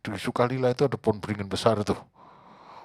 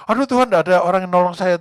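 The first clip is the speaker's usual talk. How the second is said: whiny complaint; 7 semitones higher, 9 dB louder than usual. Retold or imitated. Man complains to God.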